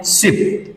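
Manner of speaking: सिप with a brief i; short vowel. Shown as a demonstration. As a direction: say सिप quickly and softly, vowel kept short. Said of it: "ये short sound है".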